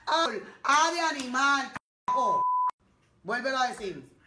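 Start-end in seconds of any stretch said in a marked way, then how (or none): 2.1-2.4 sudden high-pitched curse; angry outburst. Real, not acted. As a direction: blurt the curse out in frustration. Mother exploding at child.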